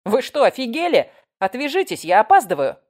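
loud, high, outraged objection; acted indignation at being grabbed; indignant protest. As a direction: fend them off, scandalized and hurried. Woman fighting off her captors.

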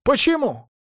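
sharp, high disbelieving cry; shocked protest. Acted. Monty reacting to Maria's refusal, high stunned protest. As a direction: leap up in pitch, stunned.

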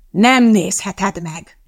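slow, drawn-out refusal; cross refusal. A narrator's reading. Teacher refuses Madeline, crossly. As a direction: refuse firmly, stretching each word.

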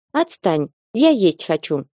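usual speaking voice

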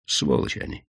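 whispered, bitter «Сволочи они!»; hissed curse. Acted. Widow's bitter outburst.

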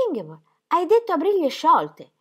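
domanda più alta e più forte, incredula; incredulità. Acted. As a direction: alza la voce per lo stupore. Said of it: "tanto sconfinato era il suo stupore". (il marito chiede più alto e forte, sbalordito)

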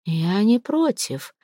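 very slow, soft and deliberate; serious. Acted. Boss calmly accepting marriage talk, slow and serious. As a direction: say it slowly, dead serious. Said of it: "серьёзно произнёс он".

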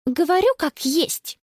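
put-on sulky girl insisting; huffy. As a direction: daughter answering her mother back. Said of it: "фыркнула та".

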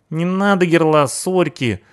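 hoge, smekende punkerstem, traag; frightened punk. Acted. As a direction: smeek om genade als de punker.

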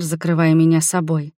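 ordinary delivery

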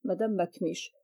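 usual speaking voice

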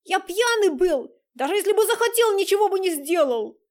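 high loud desperate shout; shouting back. A narrator's reading. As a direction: yell it back in defence. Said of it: "прокричал ему в ответ". (громкий крик в ответ)

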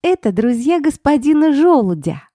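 put-on high, bright child's voice, thrilled; little girl's delight. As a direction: squeal it like a happy little girl. Daughter excited over acorns.

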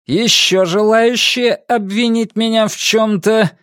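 high, slow, projected question; loud challenge. A narrator's reading. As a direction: challenge the whole crowd. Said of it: "громко спросил он".

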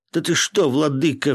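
bursting out in protest; indignant shout; flaring up. A narrator's reading. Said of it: "взвился Волохов".

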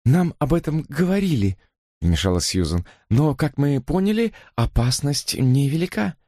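high, pleading sister voice; earnest sister. Acted. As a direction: plead with a troubled brother. Susan voiced in the story.

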